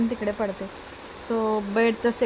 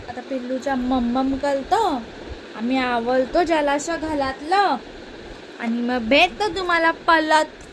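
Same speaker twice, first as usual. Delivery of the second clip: put-on baby talk. Mother talks baby-talk to viewers.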